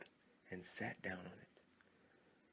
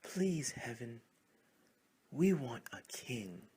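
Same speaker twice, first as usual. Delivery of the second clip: a louder, more urgent plea; louder prayer; 2 semitones higher, 5 dB louder, slower than usual. Acted. Frogs pray to heaven a second time, louder. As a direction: pray it harder than the first time. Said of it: "louder this time".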